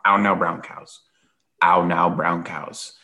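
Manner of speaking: enunciated vocal warm-up phrase. Shown as a demonstration. Podcaster waking up his voice before recording, vocal warm-up. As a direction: round out each vowel in "ow now brown cows". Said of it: "you know, do my ow".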